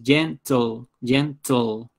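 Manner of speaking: slow "gentle" in two syllables; teacher sounding out "gentle", gen-tle; two-syllable demo. Shown as a demonstration. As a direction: draw out "gentle" as two separate beats. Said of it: "gentle también es bisilábico".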